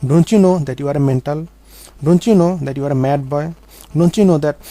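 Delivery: mock the mad boy loudly, like the bullies did; retold shouting. Classmates shouting down the boy who tried to speak, loud taunts. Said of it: "they shouted at me".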